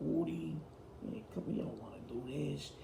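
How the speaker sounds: hushed, breathy imitation of Michael's whisper. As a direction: lean in and whisper it like a secret warning. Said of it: "gets done whispering to you".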